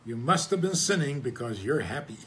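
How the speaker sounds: religious folk gasping at a happy person, mock shocked; mock shocked disapproval. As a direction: play a scandalised pious onlooker, half joking. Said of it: "religious people see a happy person and say".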